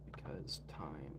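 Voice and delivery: low, quiet, slow deadpan aside; low deadpan mutter. Real, not acted. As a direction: drop it low like a dry joke. Joking excuse, then correcting himself.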